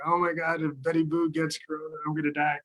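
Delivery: a high, hammed-up wail of doom; mock panic. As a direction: play a dog owner freaking out. Panicked dog owners imagined.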